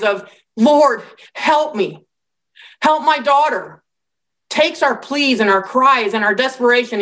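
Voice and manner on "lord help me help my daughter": slow, higher-pitched cry for help; begging and pleading. Acted. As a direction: plead desperately for your child, drawn out. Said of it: "our begging and pleading, our cries".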